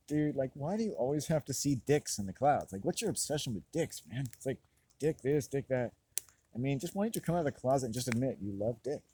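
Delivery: high, mock taunting dude voice; teasing bro. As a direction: needle your buddy with a mocking grin. Quoted friend teasing.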